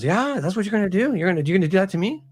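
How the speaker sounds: high, rising, confronting questions; emotional outpouring. Retold or imitated. Author voices Aramis pinning the priest, an incensed outpouring. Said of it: "it's a real emotional outpouring".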